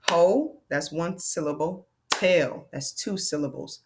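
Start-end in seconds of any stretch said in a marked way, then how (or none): 0.1-0.6 "Ho" alone on one louder beat; long O, firmly separated; clapped-out syllable. Shown as a demonstration. Teacher clapping out hotel, one syllable at a time. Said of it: "Let's clap that out". 2.1-2.7 "Tail" alone on one beat; second syllable set firmly apart; clapped-out syllable. Shown as a demonstration. Teacher clapping out hotel, one syllable at a time. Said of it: "Let's clap that out".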